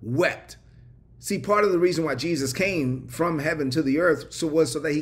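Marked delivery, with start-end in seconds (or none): 0.0-0.6 drawn out, with a pause before the last word; slow, weighty pronouncement. Real, not acted. Preacher repeating the climax of Mary's story, slow and weighty. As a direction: draw out the name, then let the verb land.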